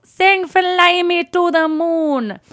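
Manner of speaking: put-on drawn-out, high, loud drunken holler; hammed-up drunk bellow; drunk fan. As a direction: slur out a loud song request like a drunk fan. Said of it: "super drunk and just goes".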